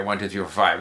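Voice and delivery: an evenly listed one-to-five count. Shown as a demonstration. Language learner showing how natives don't speak, evenly counted. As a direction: count straight through, item by item. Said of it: "they don't speak like, it's not like".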